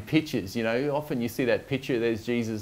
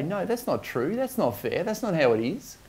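mock objection, pitched higher with rising ends; reactive protest; 5 semitones higher than usual. People reacting to false accusations, in mild imitated protest. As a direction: protest in a lightly acted, higher voice. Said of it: "natural tendency for us to react and say".

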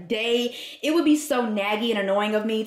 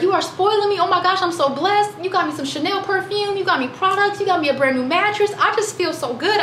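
imitating mom; 8 semitones higher than usual. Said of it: "She was like".

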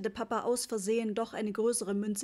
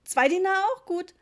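slightly intimidated; 9 semitones higher, 10 dB louder than usual. A narrator's reading. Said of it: "ein wenig eingeschüchtert".

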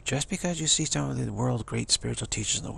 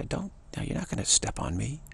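higher, firm "don't, no"; mock stern refusal; 6 semitones higher than usual. Tough newcomer to a bitey person, firmly refusing. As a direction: stand your ground against the biter.

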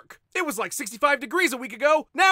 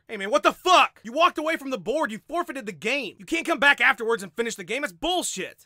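Yoel Romero impression. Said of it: "Yoel Romero playing a game".

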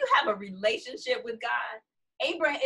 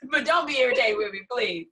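laughing mock plea; 2 semitones higher than usual. Voicing Abraham begging, laughing.

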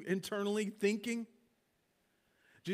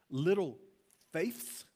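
tender mild rebuke; 3 semitones lower, slower than usual. Shown as a demonstration. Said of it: "I almost hear it like".

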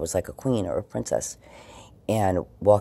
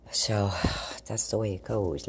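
sighing whisper; 3 dB quieter than usual. Real, not acted. Resigned about delivery delay.

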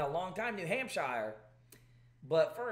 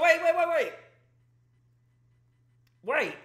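surprised; 11 semitones higher, 9 dB louder than usual. Real, not acted. Stunned by poll numbers.

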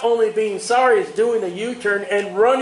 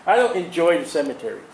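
lightly voiced God; 4 semitones lower than usual. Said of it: "God says".

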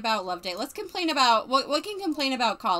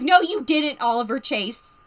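loud retort; 3 semitones higher, 8 dB louder than usual. Real, not acted. Retorting to the character.

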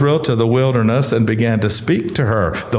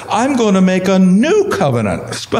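voice cracking; 3 semitones higher than usual. Real, not acted. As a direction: voice cracks on a laugh. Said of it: "I'm losing my voice".

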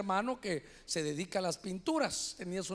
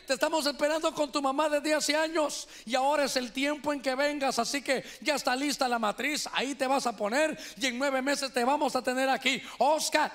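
raised, insistent call to someone not there; 3 semitones higher than usual. Retold or imitated. Brother talks to his wife's womb, calling out. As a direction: summon him with a higher, urgent voice. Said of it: "empezó a gritarle".

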